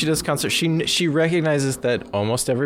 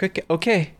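mock-goofy higher "okay"; silly, goofy; 5 semitones higher, faster than usual. Co-host imitating guitarist being silly on stage, goofy. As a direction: imitate a performer clowning lightly. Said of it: "being silly and goofy".

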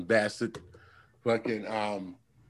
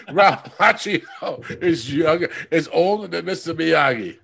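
laughing shout; 4 semitones higher, 4 dB louder than usual. Real, not acted. Laughs while shouting the joke.

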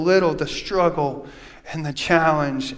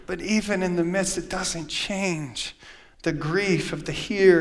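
softer, slow, reassuring; soft reassurance; 5 dB quieter than usual. Acted. Pastor gently assuring grieving listeners it won't end there. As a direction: lean in and comfort them quietly. Quiet reassurance amid grief.

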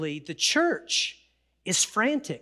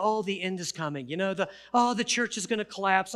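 mock doom. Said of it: "it's so easy to just go".

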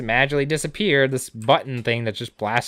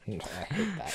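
much higher, slow and loud, groaning it out; drawn-out loud groan; 12 semitones higher, 13 dB louder, much slower than usual. Real, not acted. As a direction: stretch it into a pained groan. Groans at a pun.

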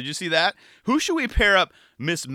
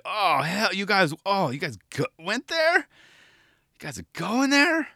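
mock shocked; 7 semitones higher, slower than usual. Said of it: "I was like".

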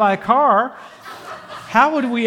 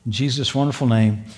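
prayer; 2 semitones lower than usual. Acted. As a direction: pray over the congregation, unhurried. Pastor leads a prayer.

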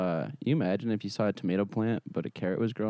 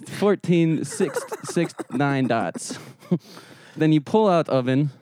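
put-on Russian accent; 2 semitones higher than usual. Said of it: "Your accent's falling apart".

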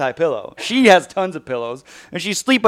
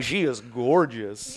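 mock admiring; 6 semitones lower, 10 dB quieter, slower than usual. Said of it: "I'm like".

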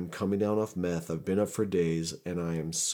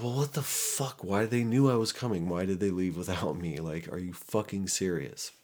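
exasperated disbelief. Retold or imitated. Friends left without him.

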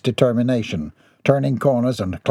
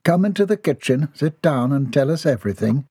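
soothing; 3 semitones higher than usual. Acted. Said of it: "tried to be soothing".

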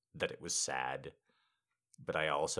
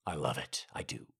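low, subdued admission; sober confession; 7 semitones lower, 4 dB quieter than usual. Real, not acted. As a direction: drop down low and admit it. Drops back after the shout.

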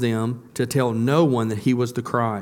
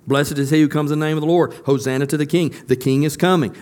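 crowd's praise; 3 semitones higher, 4 dB louder than usual. Acted.

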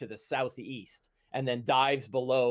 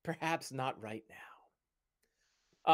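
eager, then hesitant; 3 semitones higher, slower than usual. Acted. Companion agrees, then backs away.

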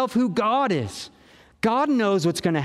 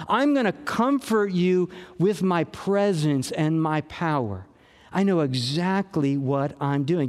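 gentle father. Pretend. Pastor voices God comforting a fearful child, gently reassuring. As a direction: speak like a dad holding a frightened child's hand. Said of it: "a father taking our hand and holding us".

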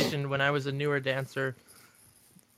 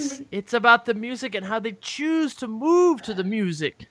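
higher, slower, laughing friend voice; Bat's voice; 5 semitones higher than usual. Retold or imitated. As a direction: read it the way Bat talks, slowly. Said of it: "I wanna read it in Bat's voice".

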